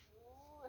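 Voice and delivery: 눈 with a long, stretched vowel; drawn-out vowel. Shown as a demonstration. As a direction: hold the vowel of 눈 well past normal length.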